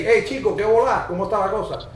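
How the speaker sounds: breezy Cuban hello; Cuban Spanish. Retold or imitated. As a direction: greet a buddy like a Cuban. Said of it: "Cuba will say".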